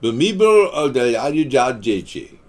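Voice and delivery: name rolled out, falling at the end. Shown as a demonstration. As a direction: say the long name in a steadier, falling voice. Same name repeated lower.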